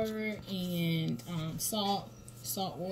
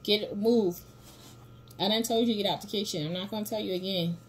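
fast firm scolding; 2 semitones higher, 3 dB louder, faster than usual. Real, not acted.

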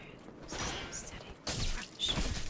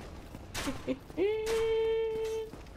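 long high-pitched nervous squeal; drawn-out high whine; 12 semitones higher, 3 dB quieter than usual. Real, not acted. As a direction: squeal on and on in panic. Panicking during game fight.

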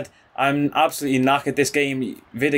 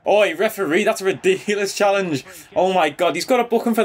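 outraged protest; 6 semitones higher than usual. Real, not acted. Outraged at a bad tackle.

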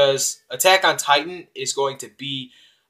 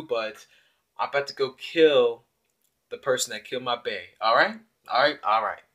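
black slang version. Retold or imitated. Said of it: "that's the black version of it".

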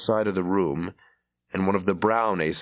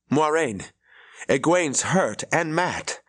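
raised, higher urgent cry for help; alarmed call; 8 semitones higher, slower than usual. Acted. Rand finds friends unconscious.

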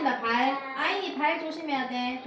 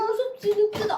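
playful big bad wolf, louder; scary wolf voice; 8 semitones higher, 8 dB louder than usual. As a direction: growl it like a wolf to a toddler. Mother plays scary wolf. (무서운 늑대 목소리)

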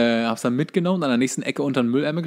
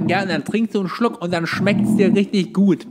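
higher, chirpy commercial voice, mocking it; 7 semitones higher, 3 dB louder than usual. Speaker mocking ad clichés in a sugary commercial voice. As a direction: parody a cheesy drink ad. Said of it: "nichts hasse ich so sehr, wie dieses dumme".

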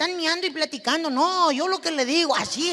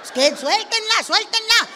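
high, loud cry of let go of it; pleading shout; 8 semitones higher, 7 dB louder than usual. Pretend. Wife begging men to release the remote, high loud plea. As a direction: beg them loudly and high to drop the remote.

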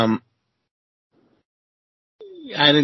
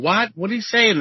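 much higher, bewildered what; baffled shout-back; 10 semitones higher than usual. Retold or imitated. Cook answers the yelling Cajun chef, bewildered and high. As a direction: throw it back in confusion.

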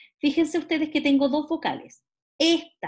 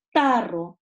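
"tarro" slow and loud, TA stretched; stressed syllable shown; 5 dB louder than usual. Shown as a demonstration. Teacher giving examples of tonic syllables, stressed syllable shown. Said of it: "donde recae la voz".

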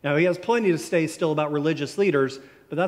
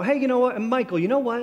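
Kathy's sudden thought; 7 semitones higher, much faster than usual. Retold or imitated. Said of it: "she would always say it like she had just thought of it".

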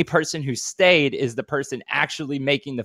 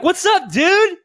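high, loud, cheery hello; cheery greeting; 5 dB louder, slower than usual. Retold or imitated. Greeting the hotel robot, high and cheery. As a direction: greet the little robot brightly. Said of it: "I'm like".

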